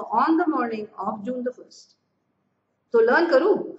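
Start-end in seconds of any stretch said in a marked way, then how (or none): 0.0-2.0 very slow, deliberate reading; slow dictation. Shown as a demonstration. Teacher dictating the sentence to students, very slow. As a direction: spell each word out for students. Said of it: "ऐसे बोलना है".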